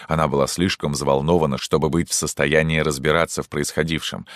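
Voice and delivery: plain reading voice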